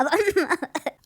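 a bright burst of laughter at the joke; high laugh. Real, not acted. Host laughing at her co-host's promo joke, high laugh. Hosts joking about promo period.

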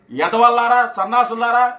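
loud, furious name-calling; angry insults. Real, not acted. Angry at rival spokesmen, hurls loud insults. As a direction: spit the insults at them.

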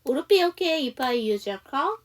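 slow, clear model sentence for students; slow model reading. Shown as a demonstration. Teacher reading the dialogue slowly for students to copy. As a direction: read it slowly as a model for the class. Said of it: "저랑 같이 한번 연습해 보도록 할게요".

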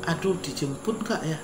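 soft worried inner voice; quietly fretting to himself; inner worry. Retold or imitated. Talking to himself on arrival in Manila, soft and worried. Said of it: "Saya udah begitu membatin".

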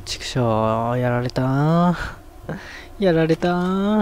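drawn-out lament over losing; slow, beaten moan; defeated groan. Real, not acted. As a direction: groan that they got you, stretching the last word. Groaning after being killed in game.

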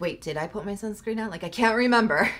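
imitating a moment of sudden worry; mock panic. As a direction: play a small, exaggerated flash of panic. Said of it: "I'll get that panic".

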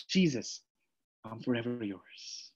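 barely spoken, very soft and low promise; hushed vow. Pretend. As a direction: breathe the vow to Jesus almost silently. Vow repeated, much softer.

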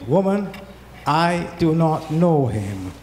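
loud, slow, insistent "I do not know him"; loud denial. Acted. Peter denies knowing Jesus, loud and emphatic. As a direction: push the woman away with a loud denial.

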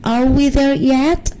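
put-on high-pitched kid complaint; high, whiny-kid protest to Dad; grumbling little girl. A narrator's reading. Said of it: "Jenny grumbled".

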